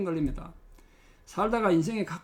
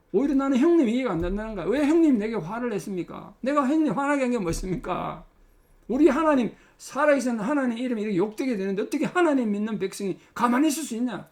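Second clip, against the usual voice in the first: higher and louder, fast at the start; David confronting his brother, boldly and loudly; righteous outcry; 4 semitones higher, 4 dB louder than usual. Acted. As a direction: cry out in holy indignation. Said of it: "그걸 지금 당당히 외친 겁니다".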